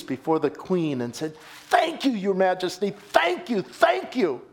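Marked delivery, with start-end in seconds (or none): 1.7-4.4 grateful thanks. Retold or imitated. Wren kneeling before the Queen.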